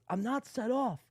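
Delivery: high mocking read; mocking John. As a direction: read his message like a whiny rival. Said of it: "then John comes back and says".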